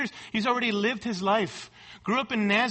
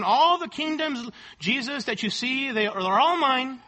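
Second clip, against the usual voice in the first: tempter's offer; 4 semitones higher than usual. Pretend. Preacher voices Satan's third offer.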